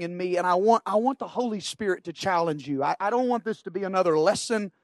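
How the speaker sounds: soft and hesitant, searching for words; quiet, halting prayer. Real, not acted. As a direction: speak low, as if praying under your breath. Preacher struggles, prays for words.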